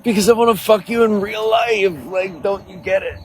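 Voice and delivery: squeaky high-pitched mock answer to pestering viewers; high mock reply. Mocking viewers who beg for her OnlyFans, in a squeaky high voice. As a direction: pitch way up, teasing and exasperated. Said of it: "I'm like".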